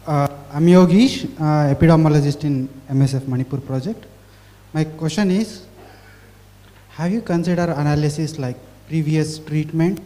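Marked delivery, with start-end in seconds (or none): 0.1-4.1 louder, clearer self-introduction; speaking up. Real, not acted. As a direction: raise your voice so the room can hear. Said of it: "Can you speak a little louder, please".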